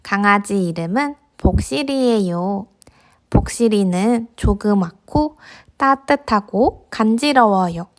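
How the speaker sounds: gentle storybook narration; reading to a toddler. A narrator's reading. Narrating picture book to kids.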